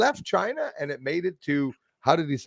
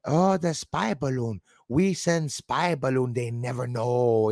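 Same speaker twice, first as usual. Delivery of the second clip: mock Chinese official; slower than usual. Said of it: "He says".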